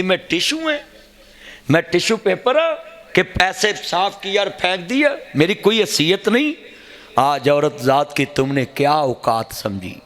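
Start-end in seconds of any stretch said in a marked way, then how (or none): 0.0-6.5 much higher, pleading woman's voice; wronged wife. Retold or imitated. Preacher voicing the divorced wife's bitter question to him, much higher. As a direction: plead high like a hurt woman.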